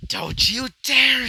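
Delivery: loud, high, drawn-out yell; screamed out. Acted. Villain warning off an attacker, screamed out. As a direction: scream it out in full voice. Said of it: "he would scream out".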